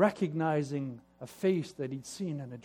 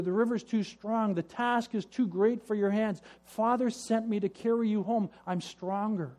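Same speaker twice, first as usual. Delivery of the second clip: earnest reassurance; 5 semitones higher than usual. Acted. Eldest offers to carry him.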